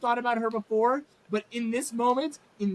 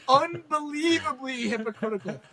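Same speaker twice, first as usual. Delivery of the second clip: laughing outrage; 3 semitones higher than usual. Real, not acted. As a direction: hammer UNBELIEVABLY, half laughing. Repeats the word, laughing in outrage.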